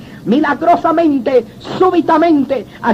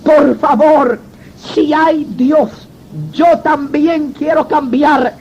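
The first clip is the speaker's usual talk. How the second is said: inner plea; much slower than usual. Retold or imitated. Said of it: "empecé a gritar dentro de mí".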